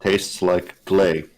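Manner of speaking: slow, each word spelled out; slow and clear. Real, not acted. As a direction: repeat it slowly for clarity. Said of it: "What did it say it tasted like?".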